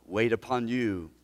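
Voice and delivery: intercede gently for the hurting; pastoral prayer. Real, not acted. Pastor praying over the discouraged in his church, gentle.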